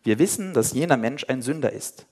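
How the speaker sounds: Bible passage read aloud with voiced figures; lively scripture reading; story reading. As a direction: read the story to the congregation, voicing each speaker.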